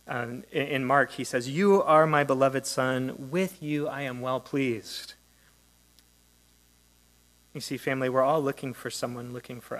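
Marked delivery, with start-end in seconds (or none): 1.5-5.1 louder and slow, a solemn announcement from heaven; proclaimed declaration. Acted. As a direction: proclaim each word slowly and fully. Quoting the Father's voice from Mark.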